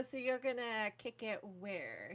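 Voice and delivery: slow, drawn-out probing question; retold attitude. Character questions her evasive date, with retold attitude. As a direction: imitate yourself grilling him with attitude, drawn out. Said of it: "why are you with the attitude".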